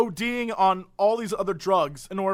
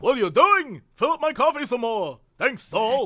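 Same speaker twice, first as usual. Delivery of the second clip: put-on grumpy old man; 4 semitones higher, 3 dB louder than usual. Imitating grumpy old man at diner.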